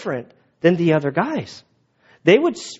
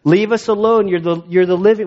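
voicing the demon; 6 semitones higher than usual. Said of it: "He's like".

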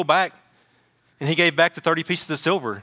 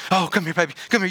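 hammed-up fussing over a baby; mock cooing parent; 3 semitones higher, faster than usual. Parent to first child over the slightest thing, mock cooing. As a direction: coo as an overanxious new parent would.

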